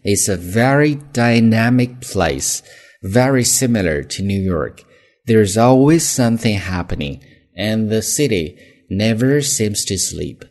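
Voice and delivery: slow, careful read-along for learners; measured pronunciation demo with stretched key words. Shown as a demonstration. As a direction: take it slowly, stressing very, always and never. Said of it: "第一次慢一些".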